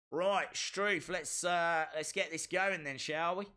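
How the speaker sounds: a light put-on Australian accent. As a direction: slip into a hint of Australian. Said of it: "I don't know why I'm doing Australian".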